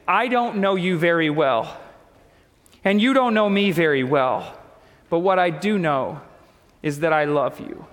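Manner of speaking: retold tender reassurance, measured with pauses; gentle sincerity. Pastor consoles a hurting girl.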